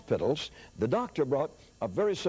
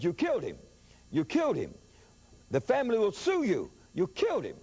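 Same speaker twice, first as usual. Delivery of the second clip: mild mock panic; 7 semitones higher than usual. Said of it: "the doctor screamed".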